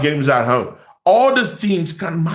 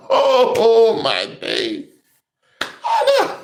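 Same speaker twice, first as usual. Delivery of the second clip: can't get the words out for laughing; laughing in disbelief; slower than usual. Real, not acted. Fan laughing at City's loss, real laughter. Cracking up at City losing.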